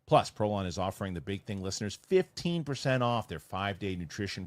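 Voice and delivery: smooth sponsor read with punched selling words; podcast ad read. Acted. Host pitching a fasting challenge to listeners, upbeat ad read. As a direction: sell it to the listeners, easing down on the web address.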